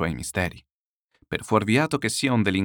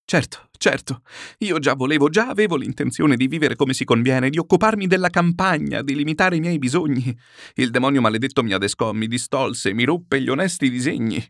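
louder, higher, hurried protest; eager protesting; 4 semitones higher, 4 dB louder than usual. Acted. Chichikov agreeing with Murazov, eager agitated excuses. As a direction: blame the devil in an eager rush.

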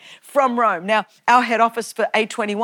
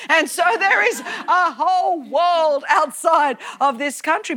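higher, laughing through the words; amused; 4 semitones higher than usual. Real, not acted. Preacher teasing her congregation about travel, amused. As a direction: chuckle while carrying on the point.

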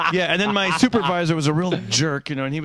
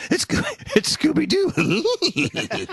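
much higher, slow cartoon-dog voice, laughing; Scooby-Doo impression; 14 semitones higher, much slower than usual. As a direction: stretch it out like the cartoon dog, cracking up. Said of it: "if Scooby-Doo walked by, I'd be".

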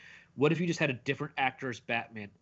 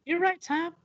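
sarcastic; 4 dB louder than usual. Pretend. Mocking sarcastic agreement.

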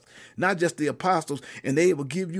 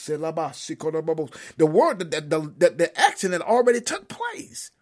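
preaching; 3 semitones higher, 3 dB louder than usual. Real, not acted. Preaches a Bible message.

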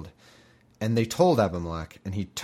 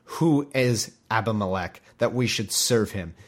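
slow, louder taunting; mocking taunt; 5 dB louder than usual. Zebul taunts Gaal once the jig is up, slow mocking. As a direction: rub it in, then shout the dare. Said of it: "Zebul said".

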